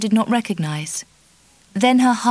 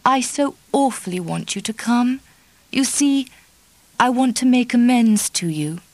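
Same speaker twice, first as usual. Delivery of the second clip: a hint of tears, voiced higher; tremulous with tears; 4 semitones higher than usual. Dorothy begging Kitty's friendship, a touch tearful. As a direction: plead on the edge of tears. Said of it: "her voice was tremulous with tears".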